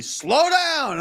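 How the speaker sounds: high, shouted slow down from a bike cop; retold yell. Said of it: "he's yelling at me".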